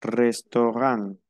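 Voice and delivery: Restaurant slow, final t silent, restoran. Shown as a demonstration. Teacher showing silent endings: Restaurant, no final t. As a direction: drop the t at the end of Restaurant. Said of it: "no pronuncio la terminación".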